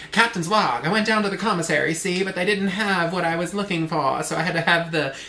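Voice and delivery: lightly put-on actress voice for a captain; Katharine Hepburn. Shown as a demonstration. Podcaster demonstrating to friends, lightly as Katharine Hepburn. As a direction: give a hint of a classic film star. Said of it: "a Katharine Hepburn impression".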